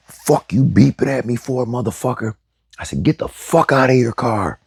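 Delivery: high, raging road-rage yell at the other driver; furious yell. Retold or imitated. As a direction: scream it in his face, pitch way up. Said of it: "I'm screaming at him".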